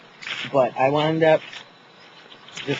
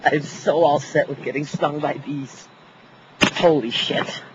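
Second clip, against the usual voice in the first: louder outburst while fleeing bees; real flustered alarm; 3 semitones higher, 5 dB louder than usual. Real, not acted. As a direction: blurt it out, rattled and on the run. Fleeing from bees mid-recording.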